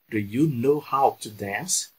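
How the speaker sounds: slow, careful repeat of Do you know how to dance; teacher drilling the question slowly for students; slow model sentence. Shown as a demonstration. Slow, deliberate drill voice. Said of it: "já vou colocar aqui na prática".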